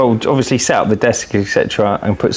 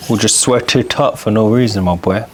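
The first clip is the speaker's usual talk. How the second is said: put-on Jamaican accent. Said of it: "Stop doing that Jamaican accent".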